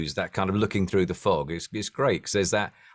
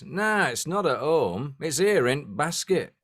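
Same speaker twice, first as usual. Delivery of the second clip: slow, higher, half-hearted Welsh voice; a hint of Welsh, hammed up for the punchline; attempted Welsh accent; 6 semitones higher, slower than usual. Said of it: "my attempted Welsh accent".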